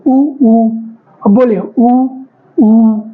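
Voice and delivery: उ said through tightly rounded lips, repeated. Shown as a demonstration. Teacher having students round their lips for उ. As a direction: purse the lips into a circle and say उ. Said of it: "होठों को गोल करेंगे".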